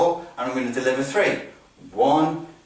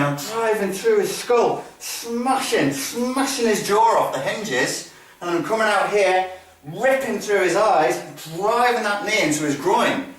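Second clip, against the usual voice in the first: slow, higher-pitched violent intent; anger and aggression; 5 semitones higher than usual. Shown as a demonstration. Instructor imagining smashing an opponent, angry aggression. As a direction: stretch the action words through gritted teeth. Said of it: "It's anger, it's aggression".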